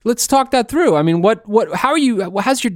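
fast, high fake-caring voice; oily salesman sympathy; smarmy concern. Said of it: "They say".

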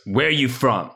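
attempted New York accent. Host quotes a New Yorker met in an elevator, attempted New York accent. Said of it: "That's my best New York accent".

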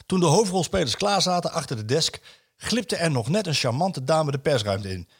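storytelling read of a column; a host reading a newspaper piece to colleagues; reading aloud. Acted. Reads a written column aloud.

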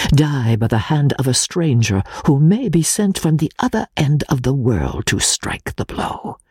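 lightly voiced Italian exile, confiding; a friend sharing a deadly secret, held close; Pesca's voice. Exile confiding his membership to English friend, lightly voiced.

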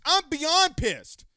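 slow, hard-stressed real anger; beyond pissed. Real, not acted. Host telling viewers how mad he is, beyond pissed. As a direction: drag it out, thoroughly fed up. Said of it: "if I'm pissed".

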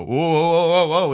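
quick startled whoas. Pretend. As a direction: back off in alarm. Scrambling back out of door.

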